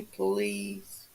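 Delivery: breathy whispered please; whispered plea to the chat. Acted. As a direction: drop to a near-whisper begging. Begging chat for a video.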